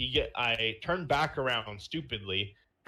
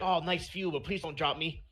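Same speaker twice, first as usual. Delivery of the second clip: put-on higher, lightly pleading Chinese accent; mock Chinese accent; 6 semitones higher than usual. Held on a building ledge, mock Chinese accent. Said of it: "I adopted a Chinese accent".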